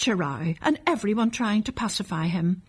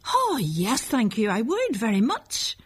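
lightly voiced eager child, higher; a hint of a keen small boy accepting; eager little boy; 3 semitones higher than usual. Small boy answers doctor eagerly.

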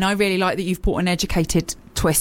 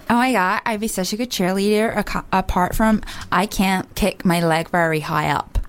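put-on American cheerleader voice; playful American accent; 2 semitones lower than usual. Shown as a demonstration. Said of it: "I should do the American".

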